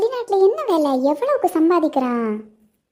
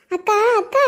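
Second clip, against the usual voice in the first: calling out; 5 semitones higher than usual. Acted. Neighbour calling at door.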